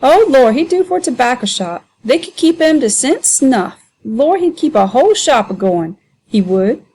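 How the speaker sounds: high, mocking dialect voice, hamming it up; jeering Sambo. Sambo mocking the men to be sold, high and jeering.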